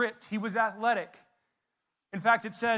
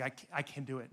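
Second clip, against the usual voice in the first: low, soft imitation of a boaster; overconfident buddy; 8 semitones lower, 9 dB quieter than usual. Buddy insisting he can do it, understated bravado. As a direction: lightly mimic a sure-of-himself friend, dropped down low. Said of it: "Everyone has a buddy that's like".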